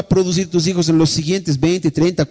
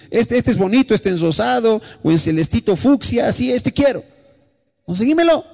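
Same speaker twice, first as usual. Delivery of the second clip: pleading daughter; 6 semitones higher than usual. Retold or imitated. Daughter choosing car models.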